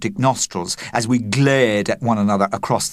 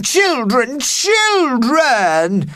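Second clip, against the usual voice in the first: calling out; 14 semitones higher, 4 dB louder, much slower than usual. Acted. Teacher calling out in panic.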